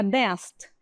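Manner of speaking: danced ending in a T sound; final T sound. Shown as a demonstration. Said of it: "como se fosse um T ali no final".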